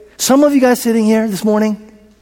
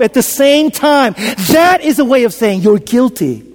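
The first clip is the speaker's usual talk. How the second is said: tearful. Real, not acted. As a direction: voice catching with tears. Preacher moved to tears.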